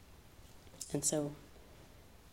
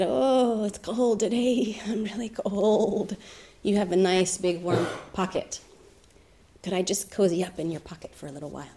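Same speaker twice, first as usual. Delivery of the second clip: pleading snake; 3 semitones higher than usual. Acted. Snake voiced in told story.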